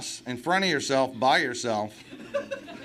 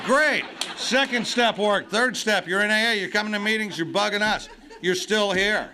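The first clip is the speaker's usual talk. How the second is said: mock pushy sponsor; 4 semitones higher than usual. Sponsors acted as drill-sergeant pushy.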